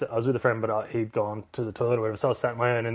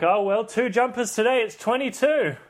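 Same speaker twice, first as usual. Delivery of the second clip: higher, resigned mock complaint; mock resigned grumble; 10 semitones higher, 3 dB louder than usual. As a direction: grumble about the cold in jest. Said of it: "I'm like".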